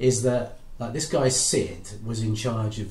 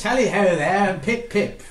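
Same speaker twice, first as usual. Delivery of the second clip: jolly posh RAF officer; higher, louder old-school officer; Squadron Leader voice; 8 semitones higher, 6 dB louder than usual. Acted. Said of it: "So convincing".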